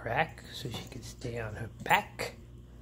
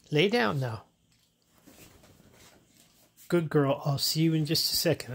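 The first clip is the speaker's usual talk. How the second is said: raised praise for the dog; firm, louder settle-down; louder coaxing; 3 semitones higher, 6 dB louder than usual. Real, not acted.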